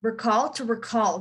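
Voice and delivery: "recall" with weight on "-call"; stress on second syllable. Shown as a demonstration. Teacher showing the verb, "recall" stressed on -call. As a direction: hit the end of each "recall". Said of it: "emphasize the end".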